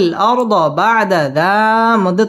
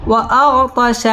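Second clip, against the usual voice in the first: slower, sung tajweed reading of وأغطش; recited. Shown as a demonstration. Teacher chanting the finished word for the student. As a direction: chant وأغطش with the vowel drawn out. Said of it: "spelled-out word, then recited".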